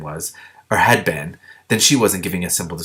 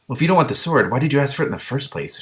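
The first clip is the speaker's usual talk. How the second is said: angry; 5 semitones higher than usual. Acted. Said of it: "Shiar said angrily".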